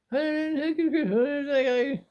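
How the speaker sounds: high, repeated calls of hey at the TV; calling out. Retold or imitated. Calling to the TV as if it could hear him, high hey calls. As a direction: call out to get the TV's attention, pitched high. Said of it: "I was calling the T V".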